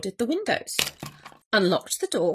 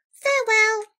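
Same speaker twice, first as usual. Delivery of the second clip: high, dainty little voice; obliging mouse; 11 semitones higher, 4 dB louder than usual. A narrator's reading. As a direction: squeak a polite leave-taking. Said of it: "said the Mouse".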